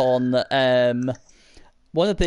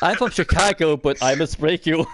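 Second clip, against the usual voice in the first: Dolph Lundgren impression. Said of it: "that was an impression of Dolph Lundgren".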